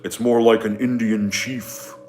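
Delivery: put-on Indian chief voice; mock stereotyped chief character; Stevie. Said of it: "I have a voice that I do for Stevie".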